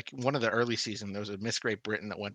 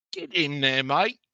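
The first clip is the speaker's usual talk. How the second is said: cheer; 5 semitones higher, 8 dB louder, slower than usual. Real, not acted. Cheering on Paige's answer.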